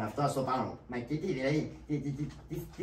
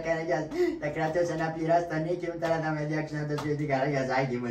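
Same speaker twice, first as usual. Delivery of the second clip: whining; 3 semitones higher, 3 dB louder than usual. Acted. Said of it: "Σταμάτα να κλαψουρίζεις".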